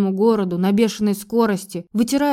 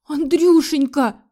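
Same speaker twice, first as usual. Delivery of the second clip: slow, drawn-out theatrical cry, higher; hammed-up wail; 6 semitones higher, 4 dB louder, slower than usual. A narrator's reading. Mother-in-law stages a fainting fit, hammed-up wail. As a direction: fake a heart attack for her son. Схватилась за сердце та.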